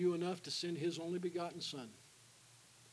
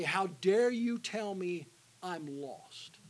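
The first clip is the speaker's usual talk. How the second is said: slow, louder, offended retort; mock indignant heckler; 2 semitones higher, 7 dB louder, much slower than usual. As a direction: spit it out like an offended passer-by. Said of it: "and say".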